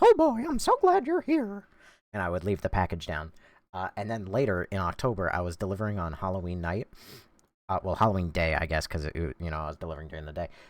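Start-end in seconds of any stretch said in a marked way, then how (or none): 0.0-1.6 squeaky, very high, loud cartoon voice. Reading a Mickey Mouse doormat aloud while delivering packages, in a Mickey Mouse voice. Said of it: "Fun fact about the Mickey voice".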